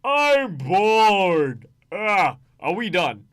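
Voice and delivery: loud, high groan of boredom; bored barbarian. Acted. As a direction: bellow it like you cannot sit still. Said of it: "He is communicating precisely what he means".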